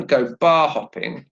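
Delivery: "bar" stressed, "hopping" falling away. Shown as a demonstration. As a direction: hit "bar", ease off on "hopping". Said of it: "Notice it's actually the same".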